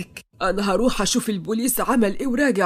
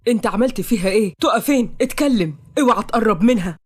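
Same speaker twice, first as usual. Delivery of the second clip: louder, furious demands; angry demands; 4 dB louder than usual. Acted. Noah angrily demanding where Taqa is. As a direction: threaten him hard. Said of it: "نوح بغضب".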